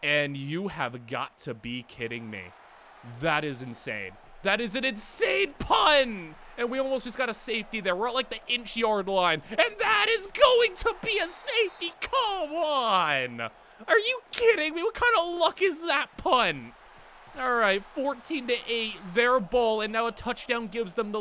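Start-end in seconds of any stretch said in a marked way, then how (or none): 4.4-6.3 stunned shout. Real, not acted. Shocked at a great punt. 9.5-16.7 frustrated yelling. Real, not acted. Near safety, disbelief.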